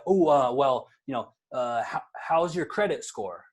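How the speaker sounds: hesitant, halting question with fillers; a mildly demoed nervous, stumbling ask; timid asking. Shown as a demonstration. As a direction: ask it like you're unsure you're allowed to. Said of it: "like, really, iffy ask about it".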